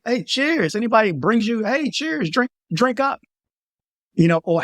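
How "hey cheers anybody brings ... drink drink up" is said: high chirpy cheers voice; mock party toast. Woman urging tourist to drink, high mock toast. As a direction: coax him to drink up. Women pushing drinks on guys.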